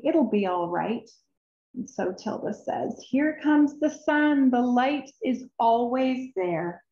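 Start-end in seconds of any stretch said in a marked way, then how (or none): 3.1-6.8 higher and louder, slow and bright; joyful announcement. Acted. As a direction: herald the sunrise gladly. Tilda greets the sun.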